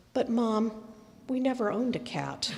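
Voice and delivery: mildly tender, with a soft landing; gently tender. Retold or imitated. Son tells dying mother they had no cat, mildly tender. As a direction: lightly act a careful, tender correction. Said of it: "very tenderly says".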